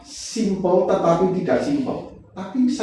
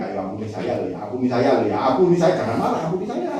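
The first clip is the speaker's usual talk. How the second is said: mock pleading provoker; 4 semitones lower, faster than usual. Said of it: "dan dia ngomong begini".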